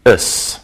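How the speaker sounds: "is" as a short unstressed "us"; suffix pronunciation. Shown as a demonstration. Teacher showing students the -ous ending, "is" pronounced "us". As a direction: say "is" like "us", drawn out slowly.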